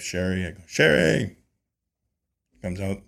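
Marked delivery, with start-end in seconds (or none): 0.7-1.4 higher-pitched mock call to someone; retold yell. Beekeeper calls his wife out to the bees, mock yell. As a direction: imitate calling out for a wife. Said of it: "yelled at my wife".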